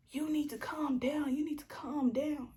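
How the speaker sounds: mock her condescending calm-down. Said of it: "in that tone".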